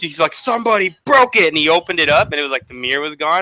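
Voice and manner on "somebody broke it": high-pitched indignant retort; mock outrage, pitch jumping up; pissed off. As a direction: act out an angry driver's protest. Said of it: "he's all pissed".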